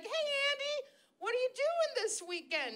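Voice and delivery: high, sweet mom voice; mock mother checking in, high; imitating mom. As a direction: chirp it like a cheery mother. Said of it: "She was just like".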